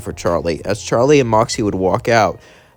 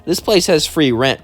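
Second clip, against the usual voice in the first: Angel voice; 7 semitones higher, 4 dB louder than usual. Acted. Angel voiced in fan story.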